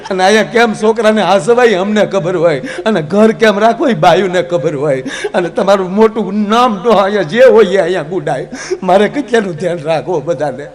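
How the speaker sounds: a hint of an exasperated wife venting at her husband; lightly voiced nagging wife. Parvati scolds Shiva about the children, lightly voiced, laughing.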